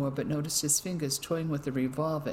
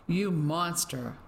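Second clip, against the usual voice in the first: slow, bitter words spat at him; 2 semitones higher, slower than usual. Acted. Ellie spits her hatred at the smug officer, slow and bitter. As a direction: make every word an accusation. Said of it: "She spat out the words".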